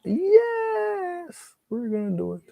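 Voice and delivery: high, shrill mock panic from a viewer; mock viewer scream. Painter imitating viewers who scream at the canvas, high mock panic. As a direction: squeal it like a horrified viewer. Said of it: "Some of you are probably screaming".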